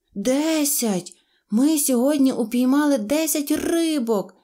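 joyful, happy, high-pitched delivery. Mosya the donkey, after counting the fish back into the river, joyfully announcing. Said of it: "радісно повідомив ослик Мося".

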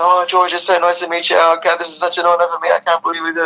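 thin, high, squeaky little voice. Retelling meeting someone while nervous: squeaky little voice. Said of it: "in a squeaky little voice".

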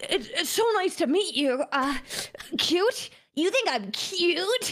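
high-pitched put-on anime character voice. Showing off a bit, the speaker introduces themself in an anime character voice. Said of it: "the anime the voice?".

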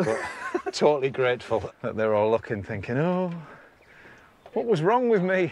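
winded, high and breathless, words puffed out. Thanking someone for their help while still massively out of breath. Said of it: "I'm massively out of breath".

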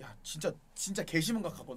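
ordinary talk

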